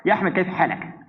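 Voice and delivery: put-on a light Arab accent on "Ya Ahmed, kaif halak?"; lightly mimicked Arabic greeting; imitating Arabic. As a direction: greet like a native Arab speaker. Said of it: "bahasa Arab nggak kelihatan orangnya".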